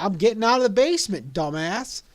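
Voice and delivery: fed up, fire it back quickly; irritated retort. Retold or imitated. Trapped teen answers his friend, irritated and loud.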